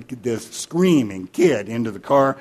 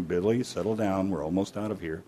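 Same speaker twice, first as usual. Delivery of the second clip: soft, lowered calming dad; very low voice; 3 semitones lower, 7 dB quieter than usual. Acted. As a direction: keep it low and composed. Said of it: "in a very low voice".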